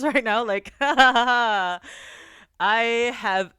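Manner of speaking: loud laughter breaking through the words; laughing. Real, not acted. Streamer laughing about not crying this time. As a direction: laugh right through the line. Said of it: "with a big smile on".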